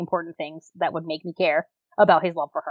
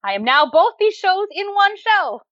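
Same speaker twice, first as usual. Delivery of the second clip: mock boastful; 6 semitones higher than usual. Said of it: "Penthouse was like".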